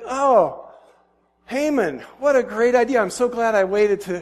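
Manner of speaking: high, loud burst of approval; acted thrilled exclamation; delighted king. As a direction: gush over a great idea.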